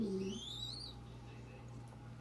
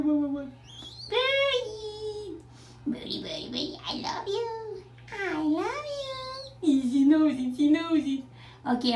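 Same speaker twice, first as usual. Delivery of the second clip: calling out; 4 semitones higher, 8 dB louder than usual. Real, not acted. Mom calling to bird from shower.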